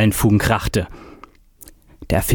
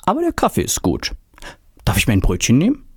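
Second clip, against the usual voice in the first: put-on old inventor; faster than usual. A narrator's reading.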